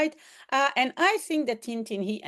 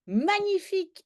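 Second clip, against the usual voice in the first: high, thrilled magnifique; delighted; 10 semitones higher than usual. Acted. Caller is delighted at the news. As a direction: sound overjoyed.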